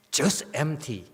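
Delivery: "just empty" set apart, with weight on "just"; "just empty" said emphatically, "just" most prominent; emphatic stress. Shown as a demonstration. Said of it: "that's why it's so emphatic".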